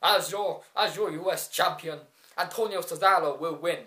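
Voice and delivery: badly faked foreign accent; hammy, unconvincing foreign accent; Cesaro. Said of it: "that was a really bad accent".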